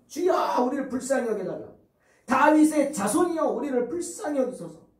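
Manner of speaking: pleading cry to the Lord. Acted. Blind men crying out to Jesus. (소리 높여 부르짖는 간청)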